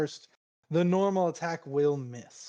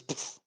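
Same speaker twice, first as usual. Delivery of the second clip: imitated soft puff of ash; ash puff sound; 6 dB quieter than usual. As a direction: puff out air like a little ash cloud. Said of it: "happy cloud of ash goes".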